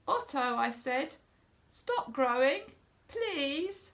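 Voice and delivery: high, pleading cry rising on please. Acted. Boy begging his fish to stop growing, pleading. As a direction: beg the fish desperately to stop.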